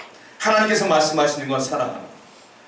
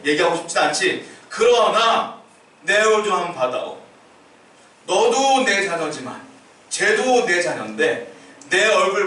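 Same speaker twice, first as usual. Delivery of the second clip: voicing God. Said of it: "하나님도 뭐라고 하시냐면".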